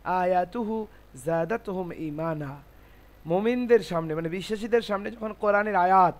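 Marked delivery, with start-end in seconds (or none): 0.0-2.6 measured Arabic Quranic recitation. Retold or imitated. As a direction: recite the verse with drawn vowels. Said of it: "আল্লাহ বলছেন কোরআনে".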